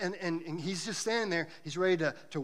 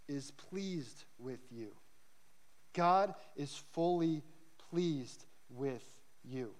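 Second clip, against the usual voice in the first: slow, soft and tender; tender emphasis; 3 semitones lower, 5 dB quieter, much slower than usual. Real, not acted. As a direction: let each word land gently. Preacher slows on key truth.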